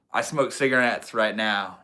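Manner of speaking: slight southern twang. Real, not acted. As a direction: let a little southern twang slip in. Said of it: "southern twang when I started saying that".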